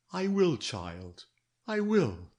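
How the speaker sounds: slow, gentle fatherly promise; detective reassuring the frightened girl, tender. Acted. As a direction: soothe her like a father. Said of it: "It was tender".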